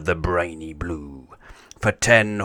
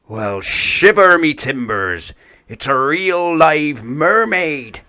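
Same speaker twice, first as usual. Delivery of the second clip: louder, higher, slow astonished cry; amazed pirate; 8 semitones higher, 8 dB louder than usual. Acted. Pirate seeing a mermaid, amazed cry. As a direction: gasp it out in wonder.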